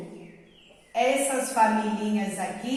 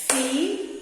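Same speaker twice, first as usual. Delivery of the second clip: clapping syllables; 2 semitones higher than usual. Shown as a demonstration. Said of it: "batendo a minha palminha".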